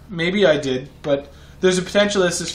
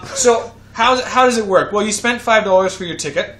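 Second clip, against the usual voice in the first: announcer voice; 4 semitones higher, 4 dB louder than usual. Pretend. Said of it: "I'm gonna move into my announcer voice".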